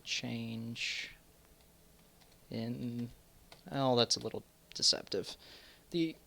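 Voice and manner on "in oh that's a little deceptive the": interrupted by coughing; speaking through a cough; coughing fit. Real, not acted. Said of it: "I'm really sorry I'm coughing so much".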